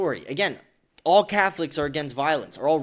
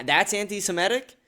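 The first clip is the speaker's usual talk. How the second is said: raised-pitch challenging question; incredulous; 5 semitones higher than usual. Real, not acted. Answering an accusation with a question, incredulous. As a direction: throw it back in disbelief.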